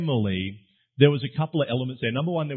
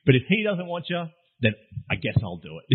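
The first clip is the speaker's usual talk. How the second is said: mock unromantic shrug; 3 semitones higher than usual. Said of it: "Very romantic, very, very romantic".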